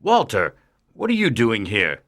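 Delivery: low alien voice, mildly taken aback; a hint of surprise at the visitor; surprised. A narrator's reading. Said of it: "asked Mister Kent, surprised".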